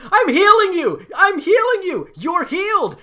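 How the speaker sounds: high, full-volume frantic scream. Acted. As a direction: scream it at the patient you are healing. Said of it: "you can hear her screaming".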